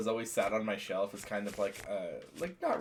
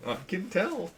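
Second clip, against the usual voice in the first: slow, higher monster drawl of a dragon; lightly voiced dragon, pitched up; 5 semitones higher, 6 dB quieter, slower than usual. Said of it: "This is my dragon voice".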